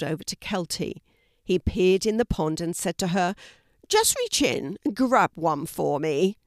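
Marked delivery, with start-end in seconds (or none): 3.9-6.4 lightly voiced red panda, coaxing; a hint of a cheeky animal character.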